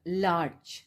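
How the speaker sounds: "लार्ज" in one breath, no break; one unbroken syllable. Shown as a demonstration. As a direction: say "लार्ज" as a single smooth, drawn-out sound. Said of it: "एक ही सांस के साथ उसे बोल दूंगी". ("लार्ज" एक ही सांस में, बिना तोड़े)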